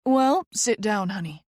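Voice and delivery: lightly voiced coworker going through business; Vicky, friendly busy coworker. Vicky updating the new fellow on paperwork, chatty coworker voice.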